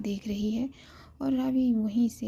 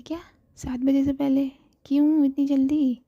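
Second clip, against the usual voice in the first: surprised; 4 semitones higher, 5 dB louder than usual. Acted. Ravi shocked at early time.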